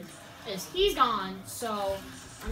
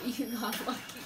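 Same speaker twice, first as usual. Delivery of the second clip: laughing; 2 semitones lower, 4 dB quieter than usual. Real, not acted. Laughing taunt.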